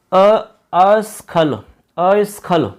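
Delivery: slowly sounding out अस्खल; slow breakdown. Shown as a demonstration. Teacher sounds out the word part for students slowly. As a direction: stretch अस्खल syllable by syllable. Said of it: "चलो मैं लिख के बता देता हूँ".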